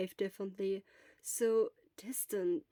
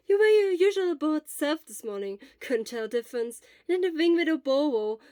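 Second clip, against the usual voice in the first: lively worried friend; 2 semitones higher, 6 dB louder than usual. Acted. Friend chatting, relieved and worried.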